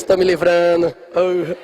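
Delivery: mock relieved father muttering aside; a father glad to be rid of his daughter, lightly voiced. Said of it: "Morto de feliz". (pai aliviado entregando a noiva, em tom de brincadeira)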